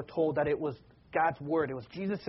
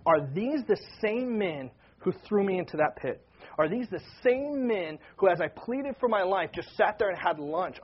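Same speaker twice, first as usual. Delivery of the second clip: insistent rhetorical questioning, building by repetition; searching questions. Retold or imitated. Preacher voicing Joseph testing his brothers, insistent and searching. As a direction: press each question as the wronged brother.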